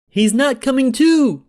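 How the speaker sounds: high panicked scream. A narrator's reading. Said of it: "screamed Tommy".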